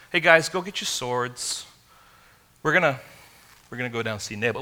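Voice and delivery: easygoing, ordinary call to the men; casual invitation. Shown as a demonstration. How David did not speak to his men, casual and mild. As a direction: toss it off like a friendly errand. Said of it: "it wasn't like".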